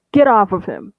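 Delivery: loud angry shout. Acted. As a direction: yell it at the attacker. Someone grabs him from behind.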